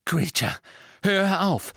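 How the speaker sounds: urgent shout. Acted. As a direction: shout at the elf to stop. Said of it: "rief Harry".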